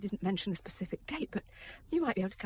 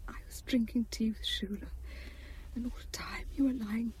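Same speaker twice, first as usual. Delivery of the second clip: tearful whisper. Acted. Wife recalls accident tearfully.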